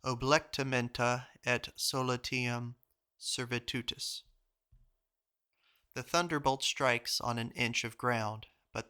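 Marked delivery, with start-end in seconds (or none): 0.0-4.2 careful, measured Latin, word by word; slow, careful reading of a foreign phrase; very slow pronunciation. Real, not acted. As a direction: sound out the Latin slowly with small breaks. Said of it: "I will try to pronounce very slowly".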